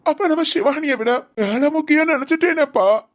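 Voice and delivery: acted weepy confession; tearful lament. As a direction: lament your mistake to your father. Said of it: "இப்படி அழுது புலம்பி".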